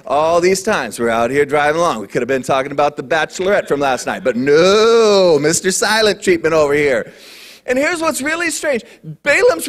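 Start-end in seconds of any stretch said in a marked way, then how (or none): 0.1-7.1 hurt. Pretend. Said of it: "I'd be like".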